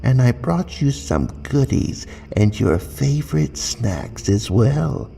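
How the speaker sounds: put-on high, bright little girl; sing-song young girl greeting. Child character greeting.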